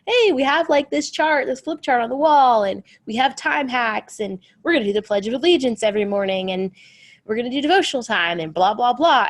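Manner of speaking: high, loud, rapid-fire eager planning; gung-ho excitement. Retold or imitated. Mom announcing her homeschool chart to the family, bursting with eagerness. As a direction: sell the grand routine like a cheerleader.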